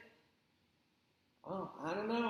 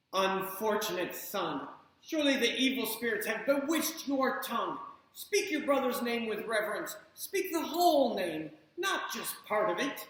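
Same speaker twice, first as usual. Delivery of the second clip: stern scolding; 2 semitones higher, 4 dB louder than usual. Acted. Mother scolds Chang.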